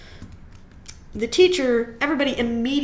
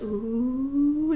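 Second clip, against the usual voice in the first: long low ooh; drawn-out low ooh from the class; low crowd ooh; 3 semitones higher than usual. Retold or imitated. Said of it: "in that really low voice".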